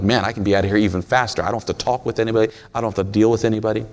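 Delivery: quick, run-on inner monologue; hurried shopper. Acted. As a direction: rattle it off, eager to get out. Acted shopper eager to get out.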